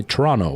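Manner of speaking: Toronto with no second T, "Torono"; Canadian pronunciation. Shown as a demonstration. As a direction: let the T vanish from Toronto. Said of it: "don't say the second T".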